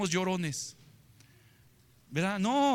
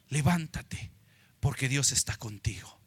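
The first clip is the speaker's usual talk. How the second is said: soft encouragement; 8 semitones lower, 5 dB quieter than usual. Shown as a demonstration. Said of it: "¿Sí me escuchó?".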